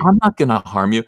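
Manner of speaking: lightly put-on harmless soy boy; mocking, lispy reassurance; mock gentle lisp. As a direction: imitate a man trying to sound gentle. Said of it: "trying to sound gentle".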